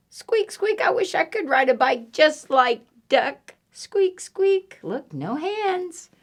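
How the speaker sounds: very high, squeaky mouse voice; wishful mouse. Acted. Mouse wishes to ride like duck, high squeaking. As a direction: squeak it like a tiny admiring mouse.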